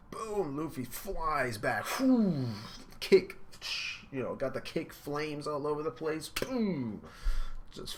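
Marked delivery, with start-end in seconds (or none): 1.9-3.4 loud high whoop; impressed whoop. Real, not acted. Watching Luffy fly back, loud high whoop. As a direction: whoop at the big hit. Reacting to the kick.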